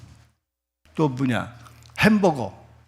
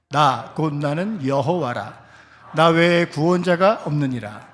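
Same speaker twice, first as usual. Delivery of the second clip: scripture reading. Acted. Preacher leading the congregation in reading, solemn.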